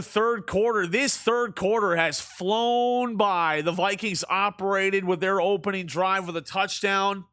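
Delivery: sports commentator cadence; play-by-play call. Acted. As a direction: call the game like a broadcaster. Video game play-by-play.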